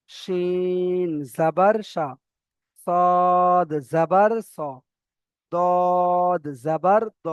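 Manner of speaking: stretched letter names, short final syllables; running Qaida recitation. Shown as a demonstration. Teacher runs through the zabar letters alone, measured chant. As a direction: recite steadily, holding each letter on one note. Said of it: "প্রত্যেকটা অক্ষরে টান যেমন আছে তেমন টান দিচ্ছি".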